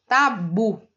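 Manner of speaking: tabu with weight on the final bu; teacher sounding out tabu, bu strongest; stress on BU. Shown as a demonstration. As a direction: lean on the last syllable of tabu. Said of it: "o bu é o mais forte".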